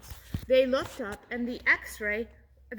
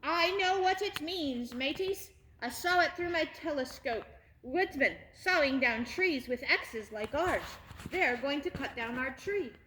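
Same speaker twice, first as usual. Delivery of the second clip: pirate crow. Acted. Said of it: "said Captain Crow".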